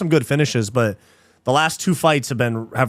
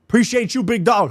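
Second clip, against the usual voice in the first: higher silly voice for the thanks; high put-on voice; 7 semitones higher than usual. Streamer thanking a donor, high goofy voice.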